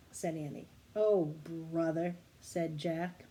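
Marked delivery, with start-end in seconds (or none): 0.9-2.1 exasperated. Acted. Jack exasperated.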